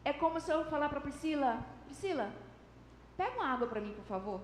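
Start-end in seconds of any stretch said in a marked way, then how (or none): 1.9-4.4 casual, low-key request, softly trailing off; easy little everyday ask; minimal effort. Shown as a demonstration. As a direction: ask in passing, barely trying. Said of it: "É um esforço mínimo, pequeno".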